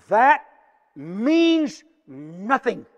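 loud, ringing pulpit proclamation, slowing on means nothing; forceful preaching. Acted. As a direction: preach it out to the congregation. Preacher quoting the Spirit forcefully.

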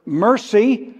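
mercy said high and strong; stress on mercy. Shown as a demonstration. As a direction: hit mercy hard. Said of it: "underline this word".

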